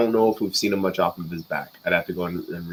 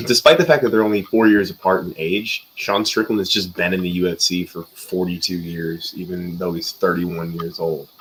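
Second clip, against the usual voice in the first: glitchy robotic connection; 2 semitones lower than usual. Real, not acted. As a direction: voice breaking up like a robot. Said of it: "Your voice is really robotic".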